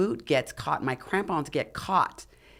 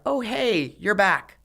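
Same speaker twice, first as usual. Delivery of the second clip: higher, louder breezy hail; mock cheery greeting; 6 semitones higher, 4 dB louder, slower than usual. Two men at base camp greeting the abandoned climber, mock cheery. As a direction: imitate an oblivious, happy welcome.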